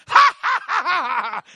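loud high burst of laughter; cracking up uncontrollably; joyful belly laugh; laughing fit. Retold or imitated. Woman overcome with holy laughter.

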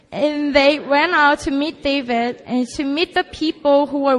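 loud, deliberate congregational Bible reading; scripture reading aloud. Acted.

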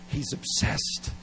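slow, hushed whisper. Real, not acted. Preacher to congregation, a slow hushed whisper. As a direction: drop to a whisper to let it land. Preacher stressing God's obsession.

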